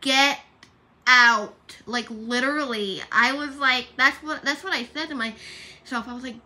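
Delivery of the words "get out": mock loud exclamation. Retold exclamation at someone.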